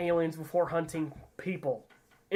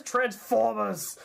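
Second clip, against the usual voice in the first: mock Transformers announcement; 5 semitones higher, much slower than usual. Imitates the franchise name dramatically.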